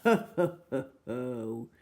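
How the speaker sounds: hammed-up ho ho laugh; mock villain laugh. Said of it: "cried the enormous crocodile".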